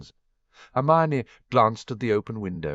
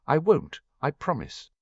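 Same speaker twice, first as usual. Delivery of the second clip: fervent promise; 8 semitones higher than usual. Acted. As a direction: rush to reassure her, heartfelt. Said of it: "Harry said fervently".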